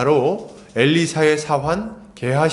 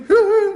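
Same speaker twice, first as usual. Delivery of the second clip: very high, loud mock whinny; whinny like a horse; imitated horse neigh; 5 dB louder, slower than usual. Preacher mimics horses outside the town, high neigh. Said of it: "울음소리".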